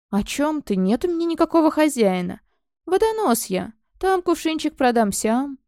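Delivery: mock-innocent whine; feigned innocence. Snake man feigns being waterseller.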